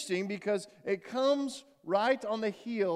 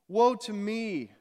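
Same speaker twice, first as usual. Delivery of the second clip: cry of woe; 3 semitones higher, 5 dB louder, much slower than usual. Acted. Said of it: "I cried".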